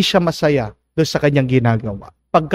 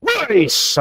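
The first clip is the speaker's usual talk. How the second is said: grudging forceful; 2 semitones higher, slower than usual. Retold or imitated. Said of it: "talagang mabigat na bigat".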